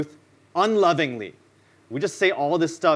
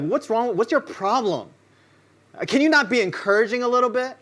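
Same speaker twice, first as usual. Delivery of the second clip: higher, indignant whine; offended complaint; 7 semitones higher than usual. Retold or imitated. Listeners offended by a hard verse, higher indignant whine. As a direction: protest like you've been insulted.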